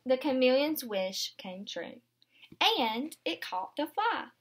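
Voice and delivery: gentle picture-book read-aloud; storybook narration for little ones; reading to children. Acted. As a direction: read it aloud to a class of young kids. Teacher reads picture book aloud.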